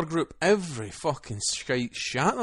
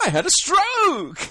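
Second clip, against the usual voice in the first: mock slurred; 6 dB louder, slower than usual. Joking about the odd voice.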